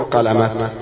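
قلمت with t where h belongs; wrong t ending. Shown as a demonstration. Teacher asking which is correct, قلمت ending in t. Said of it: "ولا تاء مربوطة".

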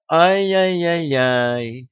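bully gloating over his victim with a mocking laugh. A narrator's reading. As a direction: drag out a gloating tsk-tsk. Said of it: "рассмеялся Студер".

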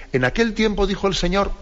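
lifted, formal reading of the gospel opening; distant gospel reading. Retold or imitated. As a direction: read it like a far-off, impersonal liturgical formula. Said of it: "y parece que escuchado así". (lectura litúrgica distante y elevada)

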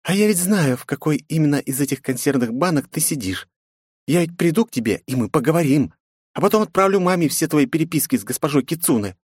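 defiant princess. A narrator's reading. Princess mocks her father, defiant. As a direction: tease and defy her father.

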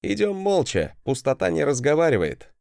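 lightly mocking a stern teacher; parody of teacher. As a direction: quote the master with mock gravity. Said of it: "спародировал я учителя".

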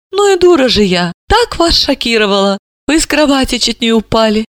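vexed. Acted. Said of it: "с досадой воскликнула".

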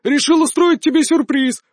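mocking shout. A narrator's reading. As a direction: jeer at him. Ivan mocks the shogun.

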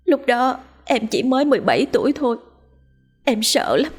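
wife's confession. Acted. Wife confessing her secret abortion to her husband, anxious.

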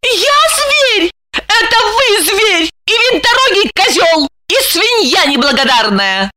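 high furious insults; indignant fury. A narrator's reading. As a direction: hurl insults. Lipochka insults Roman.

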